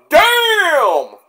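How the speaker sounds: sudden high, loud exclamation; loud startled outburst; shocked damn. Retold or imitated. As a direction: react like you just saw a neck get caught. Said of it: "I was like".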